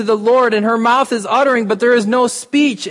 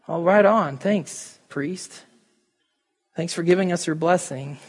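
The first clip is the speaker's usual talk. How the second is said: sarcastic thanks; 4 dB quieter than usual. Pretend. Sarcastic aside to priest.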